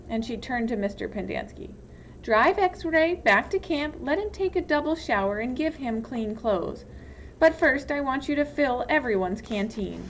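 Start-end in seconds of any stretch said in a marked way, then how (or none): 2.2-10.0 a hint of a commanding warden; lightly voiced warden. Warden ordering the counselor around, lightly commanding. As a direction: issue orders coolly, no argument.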